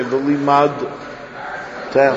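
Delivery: "V'limad tem" said as one word, no pause; blurred into one word; run together. Shown as a demonstration. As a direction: slur "V'limad tem" together without a break. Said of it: "You can't say".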